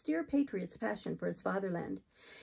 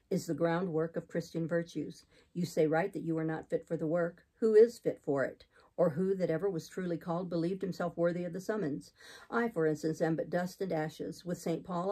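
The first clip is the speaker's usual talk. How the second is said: lightly deepened, steady preacher; low, measured clergyman's voice; exhorting missionary; 3 semitones lower than usual. Acted. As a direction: persuade with austere conviction. Voices Saint John.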